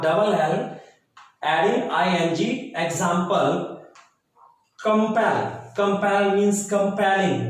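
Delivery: very slow, deliberate reading of rules for students to copy; slow dictation. Acted. Teacher dictating English spelling rules to the class, very slow and measured.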